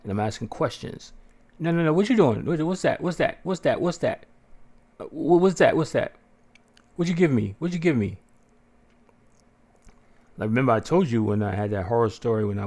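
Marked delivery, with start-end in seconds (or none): 1.6-8.2 higher, insistent repeated what's that; alarmed patient grilling the staff; panicked questioning. Retold or imitated. Retold panic at hospital staff.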